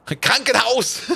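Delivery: slow, loud mock-angry Krankenhaus; angry German. Shown as a demonstration. Joking that German sounds angry, slow gruff word. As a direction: stretch Krankenhaus out like a gruff threat. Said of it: "just be a little bit angry".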